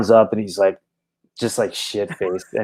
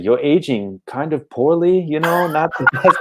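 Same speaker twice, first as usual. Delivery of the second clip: high mocking drunk fan with a laugh; 8 semitones higher than usual. Drunk fan teasing the singer about aging. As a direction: tease like a tipsy heckler.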